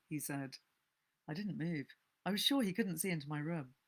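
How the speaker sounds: steady reading of a thriller, a little hushed; story narration. A narrator's reading. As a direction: read the tale aloud as a narrator, drawing listeners in. Reads a novel aloud.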